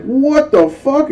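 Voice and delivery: high, slow mock outrage; mock indignant yell. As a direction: ham up the disbelief. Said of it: "I was like".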